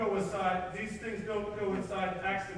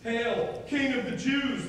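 raised, louder mock salute; mocking taunt; 4 semitones higher, 4 dB louder, slower than usual. Soldiers kneeling before Jesus, taunting him mockingly. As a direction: hail him in scornful mockery. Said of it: "mockingly and taunting him".

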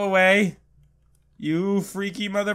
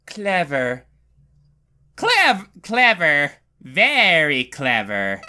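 lightly voiced sly game villain; drawn-out mocking delivery; taunting villain; 3 semitones lower, slower than usual. Game villain sneering at the player, lightly taunting.

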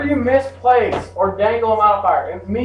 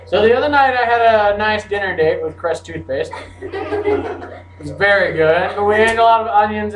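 laughing. Real, not acted. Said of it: "joke with laughter".

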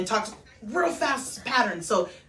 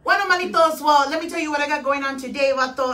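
Chona voice; 3 semitones higher, 4 dB louder than usual. Pretend. Host asks her to be Chona, Tex-Mex Chona greeting fans. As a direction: perform Chona hyping up the comadres. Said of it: "be Chona for a minute".

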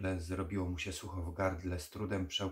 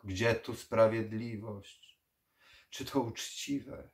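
louder, stern vampire rebuke; stern old vampire; 6 dB louder than usual. Acted. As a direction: scold the foolish son. Vampire scolds his son.

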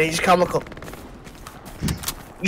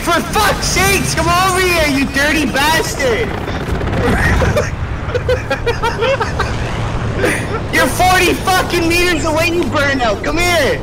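mock angry yelling; 3 semitones higher than usual. Yelling at distant medic.

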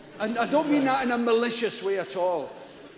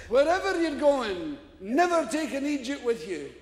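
saying through laughter; 4 semitones higher than usual. Retold or imitated. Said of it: "He says".

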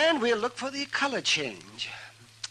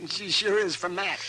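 chuckling through the words; laughing. Acted. Doc teasing Matt about the lady, laughing. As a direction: laugh it out at Matt's expense.

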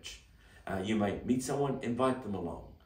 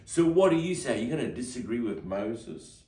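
challenging mob; 2 semitones higher, 6 dB louder than usual. Acted. Mob challenging Jesus again.

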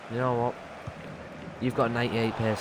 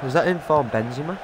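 voice cracking; 3 semitones higher than usual. Real, not acted. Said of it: "God, my voice just went weird".

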